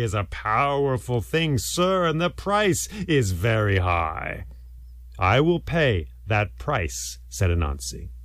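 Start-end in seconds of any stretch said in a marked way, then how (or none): 2.1-4.4 slow, weighty warning; grave warning. Acted. Sky god naming his price to Anansi, grave warning. 5.2-7.2 slow, deliberate acceptance; measured and resolute; solemn vow. Acted. Anansi accepting the sky god's price, solemn vow.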